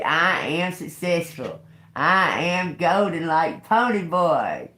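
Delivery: high, slow affirmation for the bird; mock affirmation.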